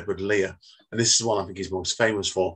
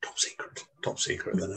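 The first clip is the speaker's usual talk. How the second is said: mock secretive; 3 semitones lower, 9 dB quieter than usual. Jokes about keeping it secret.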